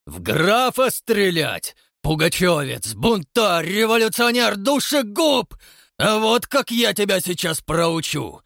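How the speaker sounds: climbing from loud to high shouted fury; building rage. A narrator's reading. Count rages at the watchman, rising to a shout. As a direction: rage harder with each insult.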